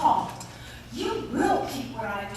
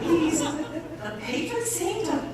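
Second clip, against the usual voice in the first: laughing, higher pitched; 7 semitones higher, 3 dB louder, much slower than usual. Acted. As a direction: giggle through the words. Nun laughing at the trick.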